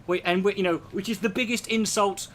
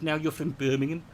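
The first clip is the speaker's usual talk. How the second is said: Birmingham accent. Shown as a demonstration. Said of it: "if you bring it down a bit".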